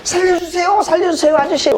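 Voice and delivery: high-pitched frantic pleading; retold desperate yell; acted cry for help. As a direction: call out for rescue, hammed-up panic. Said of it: "제가 고함을 질렀어요".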